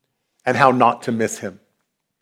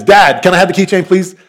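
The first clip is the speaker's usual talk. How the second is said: impatient son; 4 semitones higher than usual. Retold or imitated. Son pleading for keychain.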